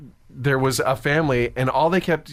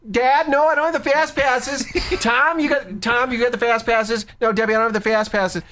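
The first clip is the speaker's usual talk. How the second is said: high, hollering parody of an obnoxious family; 9 semitones higher than usual. Retold or imitated. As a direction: call back and forth in a high mock yell. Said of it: "he gets in on it now".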